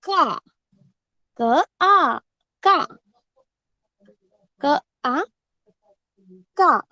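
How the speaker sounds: teacher blends क and आ slowly into का; blending sounds aloud. Shown as a demonstration. Teacher models blending for first graders, sounding out. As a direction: sound out क then आ, then land on का. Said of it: "क का उच्चारण करके हमें आ का उच्चारण करना है".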